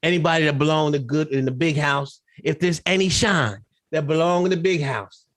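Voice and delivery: lightly voiced servant pleading to the master. Jack's servant pleads with his master, lightly voiced groveling. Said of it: "He even called Tobias".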